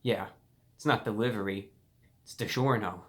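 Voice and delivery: a snide put-down, lightly played; looking down on the listener; mild mock condescension; condescending. Shown as a demonstration. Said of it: "in a condescending way".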